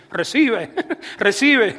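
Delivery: joking imitation of praying over people, breaking into laughter; mock altar prayer. Preacher jokes about Moses praying over people with the bush, mock-praying. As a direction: playfully pretend to minister, laughing. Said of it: "a orarle a la gente".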